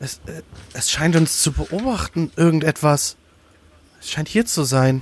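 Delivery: quavering, stammering, trembling, high dwarf voice. In a tabletop game, the narrator voices a dwarf the players confront: trembling dwarf voice. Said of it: "dass der Zwerg auch irgendwie so ein bisschen zittert".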